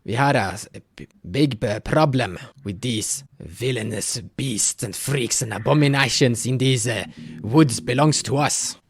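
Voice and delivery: a hint of a worried elder pleading for help; village elder Haka.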